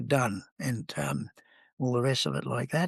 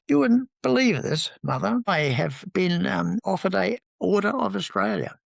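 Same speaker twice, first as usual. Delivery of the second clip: excited news; 6 semitones higher than usual. Retold or imitated. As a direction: burst out the news to mum. Telling mother the big news.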